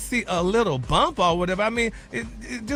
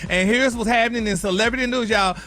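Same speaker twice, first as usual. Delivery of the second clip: louder, upbeat morning-show greeting; bright show opener; 3 semitones higher, 4 dB louder than usual. Acted. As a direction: greet the audience like a TV host. Gossip host opens show.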